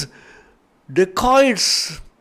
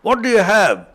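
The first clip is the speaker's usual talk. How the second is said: louder, demanding robber voice; a lightly voiced dacoit, loud and bullying; rough robbers' demand; 2 semitones higher, 5 dB louder than usual. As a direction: bark at him like a bandit after the key. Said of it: "broke open the doors and said".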